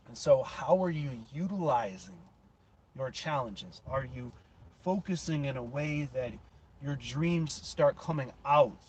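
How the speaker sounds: emphatic, punched motivational speech; motivational preaching. Real, not acted. Host urging listeners to chase their own dreams, impassioned preaching. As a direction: drive each phrase home like a motivational speaker.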